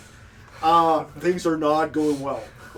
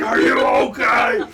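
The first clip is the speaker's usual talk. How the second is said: a bit higher, louder call; mock larva voice; 7 semitones higher, 8 dB louder than usual. Larva checking on Theo, a bit higher and louder. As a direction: call out as a little grub. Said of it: "the larva's like".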